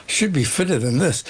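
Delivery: winded sigh, breathless; out of breath. Real, not acted. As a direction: puff out the words after rushing. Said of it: "I'm a little out of breath".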